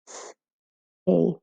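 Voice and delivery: "S, A" segmented for learners, each sound alone; sounding out phonemes. Shown as a demonstration. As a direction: say "S, A" as two separate sounds with a pause between. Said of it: "The sounds are".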